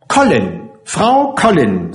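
slow, savoured announcement; very proud. Acted. Narrator supplies the mother's name, very proud. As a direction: present the name with pride, lifting the second part. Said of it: "sagte ich sehr stolz".

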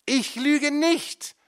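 very high, loud, slow roar; bellowing. A narrator's reading. Mother bursts out at her son, bellowing. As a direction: explode in fury. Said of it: "brüllt sie plötzlich los".

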